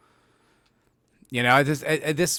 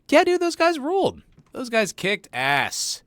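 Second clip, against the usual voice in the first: mock dumb bro; 12 semitones higher than usual. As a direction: ham up a dude who thinks the Nazis ruled. Mocking a Nazi fan.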